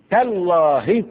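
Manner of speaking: high, loud cry of amazement; astonished oath. Acted. Jacob's sons answer their father in astonishment. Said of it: "حاجه تعجبهم ولا ما تعجبهمش".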